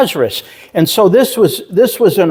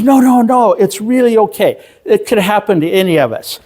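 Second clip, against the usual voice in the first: retold reassurance; 6 semitones higher than usual. Retold woman reassures embarrassed teller.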